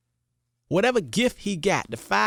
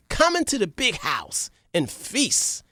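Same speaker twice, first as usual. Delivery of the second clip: warm invitation; 2 semitones higher, slower than usual. Acted. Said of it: "he hugged him".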